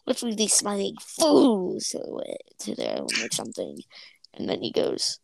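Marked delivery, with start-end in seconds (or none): 0.1-3.1 villainous sneer. Retold or imitated. Imitates rival duo's sneering exit.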